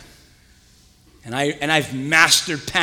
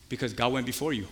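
quiet answer; 5 semitones lower, 8 dB quieter than usual. Pretend.

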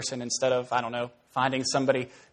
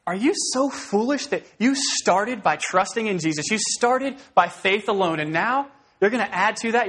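voicing Paul; 5 semitones higher than usual. Preacher voicing Paul questioning the Galatians, raised and pleading. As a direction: ask it as an exasperated apostle. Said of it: "he's kinda saying".

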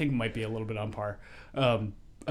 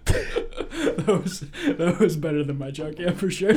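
talking through real laughter, higher and louder; laughing; 6 semitones higher, 8 dB louder, slower than usual. Real, not acted. Host laughs at friend's punchline, laughing. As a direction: laugh while you praise it.

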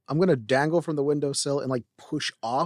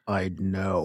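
low, mock-menacing imitation; exaggerated dark certainty, imitated; imitated menace; 4 semitones lower than usual. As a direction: mimic a friend's ominous reply. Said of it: "That's literally how it sounded".

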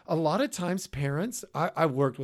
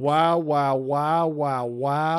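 mock amazement; 5 dB louder, much slower than usual. Real, not acted.

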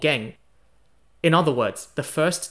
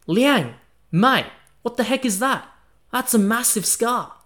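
higher, startled outburst at the sight; shocked exclamation; 7 semitones higher, 3 dB louder than usual. Retold or imitated. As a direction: gasp it out, shocked. Shocked at a long scar.

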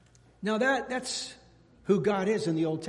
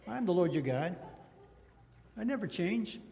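softer, regal and unbending; God on his throne; 5 dB quieter than usual. Acted. Preacher picturing God on his throne, lightly voiced regal calm. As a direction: lay it down like a king who won't budge. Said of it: "see God sitting on his throne".

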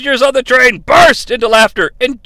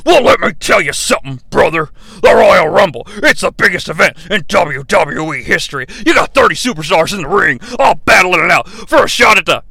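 wrestling promo. Acted. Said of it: "Hulk Hogan is cutting a wrestling promo".

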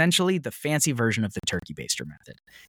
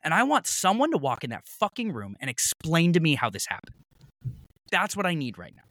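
high, firm laying down the law; higher, stern retold ultimatum; angry demand; 4 semitones higher than usual. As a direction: take charge of the clinic staff. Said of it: "I was so pissed".

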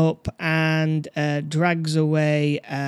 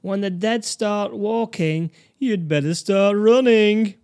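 slow, dramatic trailer voice, louder at the end; movie trailer voice; 4 semitones higher, 6 dB louder, slower than usual. Shown as a demonstration. Reciting the horror film's tagline to a friend, trailer voice. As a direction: boom out the tagline like a film trailer. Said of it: "do you want to know the tagline".

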